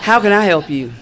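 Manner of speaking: laughing through the answer; cheeky, giggling admission. Retold or imitated. To the task force agent, admitting who she is while laughing.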